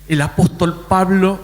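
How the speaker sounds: lightly mimicked pointed tone; put-on tone of a woman citing scripture; imitating a churchwoman's tone. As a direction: quote her in the tone she used, measured and deliberate. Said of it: "así, con ese tono".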